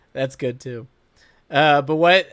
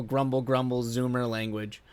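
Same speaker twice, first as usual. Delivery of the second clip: ordinary delivery, nothing marked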